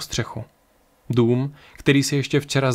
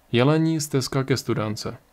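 resigned repeat. Acted. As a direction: repeat "Jelení stezka ke studánce" to himself, almost giving up. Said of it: "zopakoval pro sebe na pokraji rezignace".

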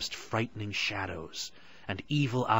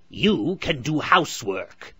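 high, loud, stern hag; grim witch; 6 semitones higher, 7 dB louder than usual. A narrator's reading. Witch gives Gretel orders, grim and loud. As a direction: order her about coldly. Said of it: "she told Gretel grimly".

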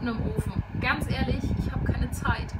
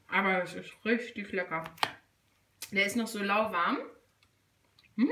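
talking while chewing; words round a bite of food; mouth full. Real, not acted. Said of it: "man redet mit vollem Mund nicht".

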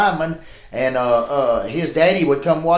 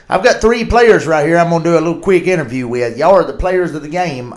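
sideline reporter; 4 dB louder than usual. Retold or imitated. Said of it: "like Michelle Tafoya does".

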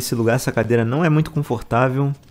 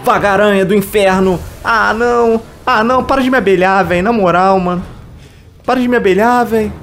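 high, loud panicked yelling; fleeing in a frantic shout; being chased; 10 semitones higher, 6 dB louder than usual. Real, not acted. Monster chasing player.

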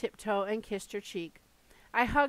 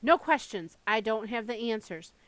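shouting; 4 dB louder than usual. Retold or imitated. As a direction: shout the answer down. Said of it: "I wanted to shout at her".

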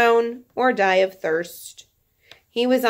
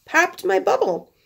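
mock dismay; 11 semitones higher than usual. Real, not acted. Mock disappointment at the book.

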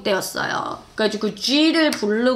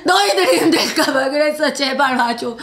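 milder mock sobbing; half-laughing fan wail; imitated tearful plea. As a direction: plead tearfully, only half acted. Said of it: "거의 울고 있었어요".

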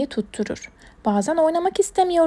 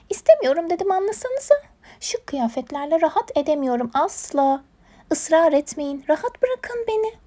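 stubborn hedgehog; 4 semitones higher than usual. Acted. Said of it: "tutturdu bizim kirpi giyinmeyeceğim diye".

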